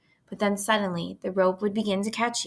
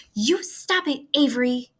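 higher, louder desperate plea; alarmed cry; 6 semitones higher, 4 dB louder than usual. A narrator's reading. Girl protecting the spider from brother, crying out. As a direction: stop him before he swings the stick. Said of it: "cried Fern".

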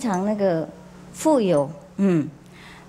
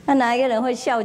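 laughing; 3 semitones higher, faster than usual. Real, not acted. Monk asks class, laughing.

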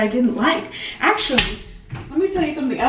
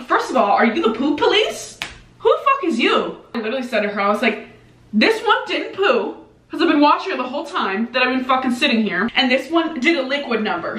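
sassy retort; 4 semitones higher than usual. Retold or imitated. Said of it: "I'm like".

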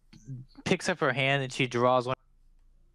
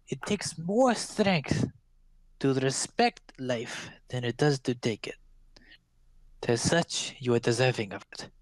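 put-on old crone. Crone praising Norik for respecting life. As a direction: breathe the middle like a secret. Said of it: "She nods her head and says".

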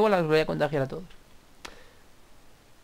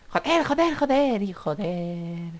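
frustrated cursing; 4 semitones higher, much slower than usual. Real, not acted. Frustrated at a wrong track.

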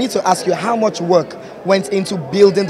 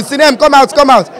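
calling out; 7 semitones higher, 5 dB louder than usual. Acted. Calling a friend out playfully.

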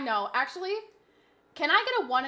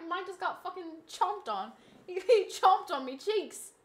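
hammed-up Australian accent; playful fake Australian; bad Australian accent; 3 semitones higher than usual. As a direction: put on a lightly cartoonish Aussie accent. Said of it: "This Australian accent is offensively bad".

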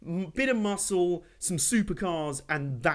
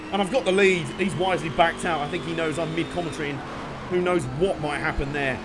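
breathless after tense race; talking short of breath. Real, not acted. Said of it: "I'm out of breath".

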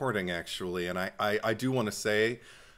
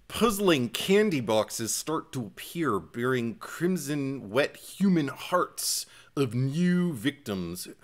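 put-on Minnesota accent; slower than usual. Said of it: "it was almost like Minnesota".

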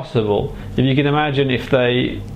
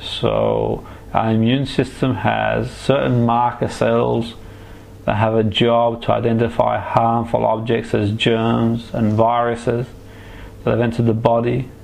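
right in your ear. Acted. Hypnotherapist guiding a relaxation trance.

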